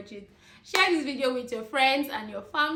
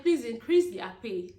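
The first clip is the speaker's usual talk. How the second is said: louder appeal to the government; loud plea; 5 dB louder than usual. Real, not acted. Vlogger begging the government to raise nurses' pay, loud plea. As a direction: call out firmly, pleading.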